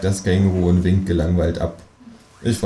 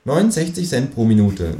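cheeky kangaroo voice; 4 semitones higher than usual. Acted. Kangaroo figure in read story.

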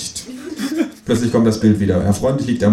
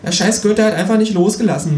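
high, louder sulky kangaroo grumble; grumbling kangaroo; 12 semitones higher, 4 dB louder than usual. Acted. Kangaroo nursing its tail, high sulky grumble. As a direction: grouse as the bruised kangaroo. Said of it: "murrt es".

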